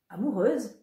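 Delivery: said with a broad smile, voice rising on "Amoureuse"; happy rising "Amoureuse?" through a grin; smiling. Acted. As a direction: beam while you ask "Amoureuse?". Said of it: "en souriant comme une banane".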